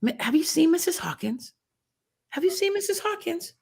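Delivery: high, sing-song mock principal voice; mocking the principal who pretends not to see her; imitating principal. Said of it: "and she was like".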